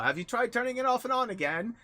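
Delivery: high, loud sitcom help-desk line; put-on high catchphrase voice; quoted catchphrase. Quoting himself teasing grandma with catchphrase.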